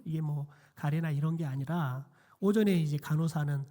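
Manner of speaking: usual speaking voice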